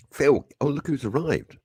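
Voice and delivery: high mock mum calling out; a hint of mum shouting from downstairs; mum calling up the stairs. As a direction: call him like his mum, pitched high. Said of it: "I can't do the voice".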